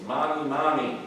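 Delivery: put-on high, loud scared child calling out; little boy scared by thunder calls his mother, high and loud; child screaming. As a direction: cry out for mommy like a frightened little boy. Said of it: "and he screams".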